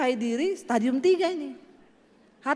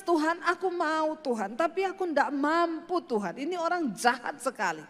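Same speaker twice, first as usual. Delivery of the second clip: crying. Real, not acted. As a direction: break into tearful prayer. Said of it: "saya nangis". (menangis sambil berdoa)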